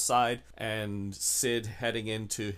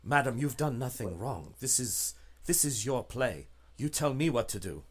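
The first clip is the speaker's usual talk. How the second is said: secretive contact. Acted. Contact defers to agent.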